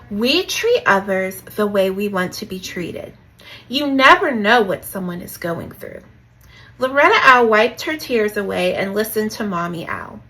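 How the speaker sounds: measured storybook read-aloud; lightly performed children's story; story narration. A narrator's reading. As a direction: read it to young listeners, leaning on each sentence opening.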